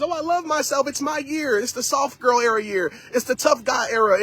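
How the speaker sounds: lightly mock a cheerful post; mocking social media posts. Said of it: "I know we post about those things".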